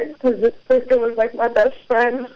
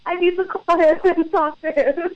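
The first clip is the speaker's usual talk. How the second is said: high-pitched, laughing through the words; amused self-quote; 9 semitones higher than usual. Retold or imitated. Caller recounting her urge to phone the host, laughing. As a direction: say it giggling and lifted.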